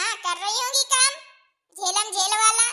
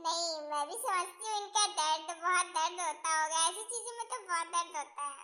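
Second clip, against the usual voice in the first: subdued sympathy; 6 semitones lower, 11 dB quieter than usual. Acted. Backpedalling with sympathy after laughing.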